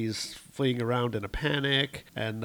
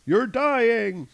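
higher, louder villain call; mock yell; 11 semitones higher, 5 dB louder than usual. Gorr gloating at King Thor, mock yell. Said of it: "uh, yells".

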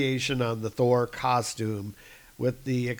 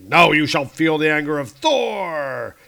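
mock battle cry; 3 semitones higher, 7 dB louder than usual. Thor threatens trolls.

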